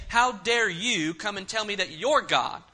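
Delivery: mildly scornful challenge; acting out a condescending rebuke. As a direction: talk down to an upstart, with understated affront. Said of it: "He's asking in a very condescending way".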